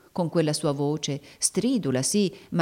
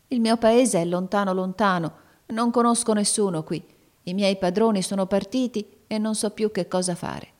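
a touch of tearful trembling, slightly higher; 4 semitones higher than usual. Acted. Weak girl tells the stranger she is lost, near tears. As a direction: hold back tears as you explain. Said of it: "con voce tremante".

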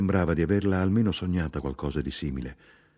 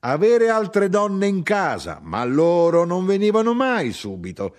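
high, loud, aggrieved tirade; insistent cry of an abandoned wife; heated grievance; 8 semitones higher, 5 dB louder than usual. Acted. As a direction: keep the complaint climbing urgently. Mother's tirade about childbirth continues.

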